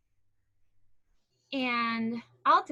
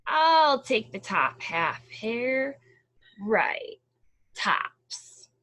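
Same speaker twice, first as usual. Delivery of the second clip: slow sleepy bear; 7 dB louder, much slower than usual. Acted.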